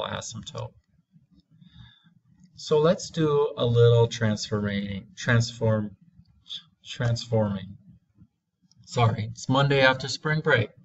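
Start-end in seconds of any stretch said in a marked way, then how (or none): 4.1-7.8 real stumble over the word transforming; halting, tongue-tied self-correction. Real, not acted. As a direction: trip on the word, break off and retry. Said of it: "I'm getting a little tongue-tied here".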